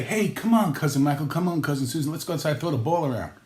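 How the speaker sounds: rally the kids with put-on cheer; mock eager invitation. Lazy relative inviting cousins outside, mock eager.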